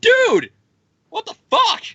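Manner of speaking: very high, loud cry of disbelief; the Avengers reacting with a squeaky shriek of shock; shocked squeal. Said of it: "all the Avengers are like".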